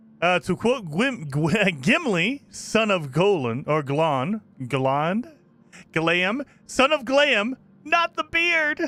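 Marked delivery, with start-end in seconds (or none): 7.8-8.8 squeaky, raised, high-pitched voice. Quoting a line, purposely in a high-pitched voice. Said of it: "Purposely said that in a high-pitched voice".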